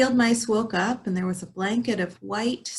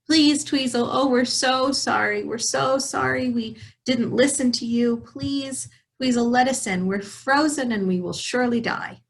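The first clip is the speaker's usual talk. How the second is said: desperate pleading; 4 semitones higher than usual. Acted. Freezing mice begging.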